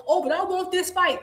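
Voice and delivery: mock whining. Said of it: "I don't wanna hear all this crying".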